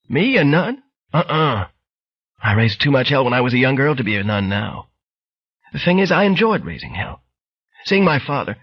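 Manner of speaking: lightly voiced frail old lady; old woman voice. Bright Girl voiced.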